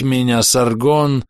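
slow eerie Саргон, drawn out falling; creepy mind voice. Acted. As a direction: stretch Саргон out like a lure. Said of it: "голос въедался в мозг".

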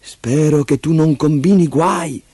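a hint of a stern nanny; serious nanny. Nanny warns Leo not to cause trouble, lightly stern voice. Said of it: "gli disse seria la tata".

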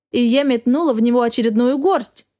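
usual speaking voice

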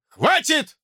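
high, sharp barked shout; barked command. Acted. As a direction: bark it to stop everyone. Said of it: "рявкнул Уилл Траут".

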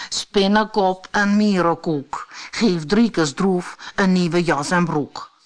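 lightly incanted rhyme; called-out magic spell. A narrator's reading. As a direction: cast the spell in a measured chant. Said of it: "en riep".

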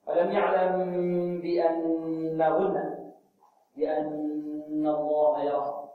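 drawn-out chanted verse; slow recitation. Shown as a demonstration. Teacher reciting verse for class, slow and chanted. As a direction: stretch each word in recitation. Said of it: "كما قال الجليل".

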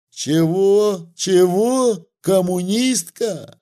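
high, loud furious outburst; booming roar. A narrator's reading. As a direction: roar it like a cannon. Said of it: "загремела, как из пушки".

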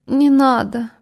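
tearful. Acted. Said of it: "плачущим голосом сказала Лёша".

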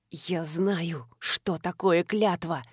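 low, slow bitter grit; low gritted retort; through gritted teeth. Acted. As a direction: push each word through clenched teeth. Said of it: "процедил Кирши".

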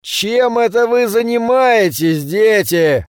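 high, drawn-out teacher's call; stern demand. A narrator's reading. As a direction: startle the children with a stern question. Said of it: "Он крепко стукнул тростью".

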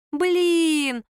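a drawn groaning Блин; drawn-out blin. A narrator's reading. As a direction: stretch Блин out in dismay. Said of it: "протянули они".

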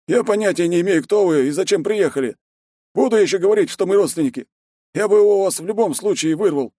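high, loud headman arguing back; defiant village elder. A narrator's reading. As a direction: argue hotly over the boy. Voit argues with Ichiro.

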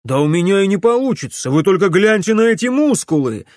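fast, high, loud protest. A narrator's reading. Alex arguing with friends, loud and fast. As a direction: bellow it, showing off muscles.

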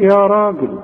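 راجل with a thick, dark "raa"; emphatic open ra on راجل; heavy ra. Shown as a demonstration. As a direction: show the full-mouthed r in يا راجل. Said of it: "خد بالك من الراء".

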